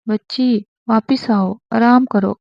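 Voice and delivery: a touch of stern command; stern order. Acted. Husband sternly ordering sick wife to rest, firm. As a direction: order her back to bed, firmly. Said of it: "سخت لہجے میں کہا".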